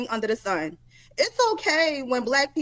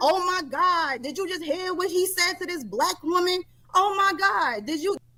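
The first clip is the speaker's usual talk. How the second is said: play-acted high, tearful, aggrieved, upset whining; 6 semitones higher than usual. Mocking people who get upset over an insult: imitating someone upset and crying. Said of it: "Y'all crying, y'all mad".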